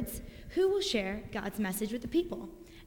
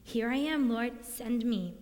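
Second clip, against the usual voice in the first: eager pleading. Retold or imitated. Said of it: "It's almost like he was saying".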